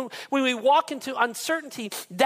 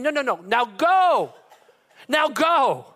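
louder, impatient now go; God loses patience, louder; insistent command; 3 semitones higher, 6 dB louder, slower than usual. Retold or imitated. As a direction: cut off the excuses. God answering Moses's excuses.

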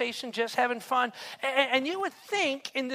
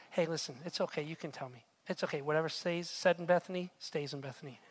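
confiding; 7 semitones lower, 8 dB quieter than usual. Acted. Mary confiding to Jesus.

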